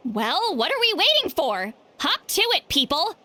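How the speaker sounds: high, lively call to the group; rally everyone to get going; eager rallying call. Acted. Rallying friends to go drink.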